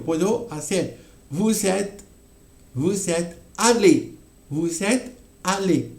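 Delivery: vous êtes pronunciado con pausa antes de allé. Shown as a demonstration. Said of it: "Hago pausa". (pausa marcada entre vous êtes y allé)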